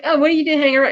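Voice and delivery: high, exasperated mock question. Hero to the woman standing idle, exasperated. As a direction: imitate impatience with an idle helper. Retold line to idle companion.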